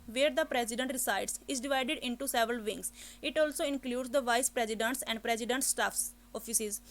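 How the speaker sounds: slow, careful, even reading; clean model read aloud. Shown as a demonstration. Teacher gives the correct exam reading, slow. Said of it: "So कैसे read करना है इसको हमने".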